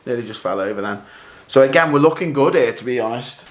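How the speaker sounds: out of breath. Real, not acted. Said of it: "I'm a bit out of breath".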